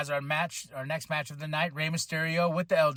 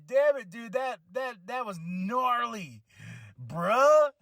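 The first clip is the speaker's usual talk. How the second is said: higher-pitched amazed reaction; re-enacted disbelief; 4 semitones higher, slower than usual. Telling viewers about a nasty crash, re-enacted disbelief. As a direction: stretch it out in amused disbelief.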